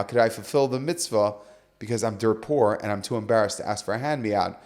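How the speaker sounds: low, subdued request for help; embarrassed plea. Retold or imitated. Poor man too embarrassed to ask, embarrassed plea. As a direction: plead softly, pitch dropped.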